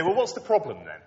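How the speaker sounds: lightly voiced breezy doubter, shrugging it off; mock complacent sceptic. Preacher voicing a comfortable sceptic to the students, in a breezy mock tone. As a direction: play an easygoing skeptic, half-hearted. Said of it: "someone might say".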